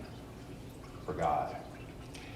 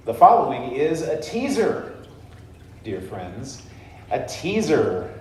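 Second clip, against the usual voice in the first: teaser voice; 3 semitones higher than usual. Shown as a demonstration. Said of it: "it's all about what's coming up next".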